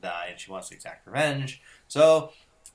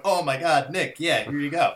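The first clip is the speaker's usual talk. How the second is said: higher, louder acted-out reply to a friend; re-enacted flustered reply; 4 semitones higher, 4 dB louder than usual. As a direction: replay your surprised answer at the door. Re-enacts handing back friend's copy.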